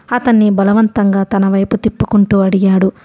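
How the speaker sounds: ordinary delivery, nothing marked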